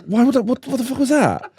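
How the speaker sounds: baffled and laughing; incredulous. Retold or imitated. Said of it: "I was like".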